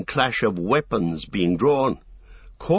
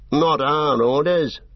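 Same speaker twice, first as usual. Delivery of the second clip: orc voice; 5 semitones higher, 4 dB louder, slower than usual. A narrator's reading. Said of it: "said one of the earlier voices".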